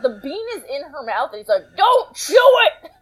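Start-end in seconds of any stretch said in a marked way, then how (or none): 1.7-2.9 high-pitched mock-frantic begging; Mister Satan. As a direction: plead in a hammed-up squeal, close to laughing. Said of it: "he begs at Videl".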